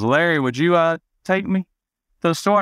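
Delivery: a light imitation of mom angling for a ride; mom asking. Mom asking dad Larry for a ride to the store, high sweet.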